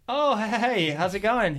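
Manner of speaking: high, bright surprised hello; surprised greeting. Retold or imitated. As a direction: greet an old friend unexpectedly. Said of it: "And I was like".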